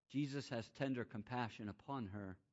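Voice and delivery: softly tender. Acted. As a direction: soften to show compassion. Tender description of Jesus.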